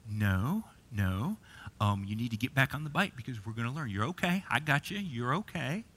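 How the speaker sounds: softly reassuring, understated, starting low; calm a hurt kid gently, without fuss; gentle coach. Retold or imitated. Imitating a coach steadying a fallen child, gentle reassurance. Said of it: "the coach just gently just says".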